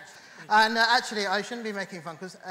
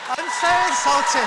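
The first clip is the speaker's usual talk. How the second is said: hammed-up insulted; 4 semitones higher, 9 dB louder than usual. Hammed-up offense.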